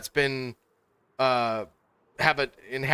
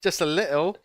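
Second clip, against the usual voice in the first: higher mock-British question; teasing put-on British accent, pitched up; British impression; 5 semitones higher, 3 dB louder than usual. Friend echoing a small request for laughs, higher British impression. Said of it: "some more British impression".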